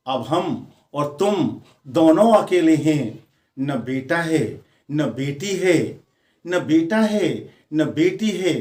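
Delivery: declaimed verse, lifted then settling into refrain; poem recitation. Acted. Retired husband asking wife to share memories, lilting recitation. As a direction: recite phrase by phrase with measured pauses.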